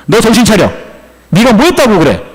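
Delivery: acted telling-off, pitched slightly up; scolding. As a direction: give him a dressing-down as God. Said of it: "야단 맞고 있어요".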